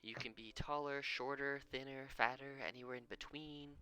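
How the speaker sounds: a hint of a gentle mother; lightly voiced mother. GM voices Ursa reading spell.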